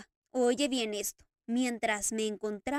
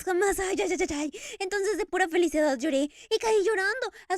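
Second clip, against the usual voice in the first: loud, tearful outburst, voice breaking; sobbing Eric; 5 semitones higher, 7 dB louder than usual. Acted. Eric weeping to the Daroga over the kiss, loud and tearful. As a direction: pour it out between sobs. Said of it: "Eric sollozaba".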